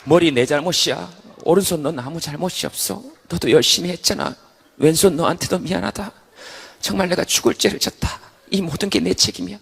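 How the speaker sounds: earnest, humble taking of blame; sincere apology. Acted. Head apologizes to both hands, sincere. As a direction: own it gently and honestly.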